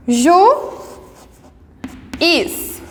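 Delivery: Ju, pause, is: juiz cut into two; syllables split. Shown as a demonstration. Teacher splits juiz for students into syllables. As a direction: break juiz into Ju and is. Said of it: "U e I em sílabas diferentes".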